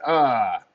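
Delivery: acted yelp of pain, falling away; cry of pain. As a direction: briefly cry out as if hit. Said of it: "he cries out in pain".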